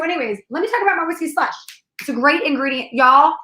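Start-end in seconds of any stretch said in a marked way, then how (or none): 2.9-3.3 slow country accent on an instruction. Real, not acted. Co-host giving slush recipe to listeners, country accent. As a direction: slip into a country accent and take it slowly. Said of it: "I don't know why I got a country accent".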